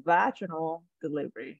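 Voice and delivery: "vaginal" as VAJ-uh-nul; stress on first syllable. Shown as a demonstration. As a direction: teach "vaginal delivery", leaning on VA. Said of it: "the stress is on the first syllable".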